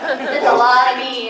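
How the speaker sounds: drawn out. Real, not acted. Joking about own character voice, stretched.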